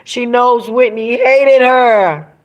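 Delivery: slowed, rising mock wail; retold distraught plea. Retelling a singer crying over Pat, anguished protest. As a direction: build the retold protest to a drawn-out peak. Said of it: "he just kept rocking, saying".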